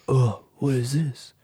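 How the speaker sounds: mock-confused whisper as Neo. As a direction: whisper it like a lost hero. Mocking Neo's confused lines.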